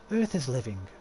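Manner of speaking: measured, dramatic storyteller; slowing on the ominous phrases; legend telling. Acted. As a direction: recount an old legend, drawing out the lists.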